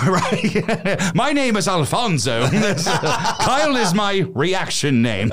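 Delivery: high, laughing through the joke. Real, not acted. Joking with his friend about a secret family, laughing high. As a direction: giggle out a silly fake name.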